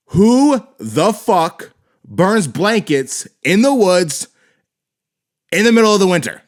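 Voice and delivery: real exasperated disbelief, pitched high; incredulous outrage. Real, not acted. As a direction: drag the words out, high and appalled. Incredulous rant at a film line.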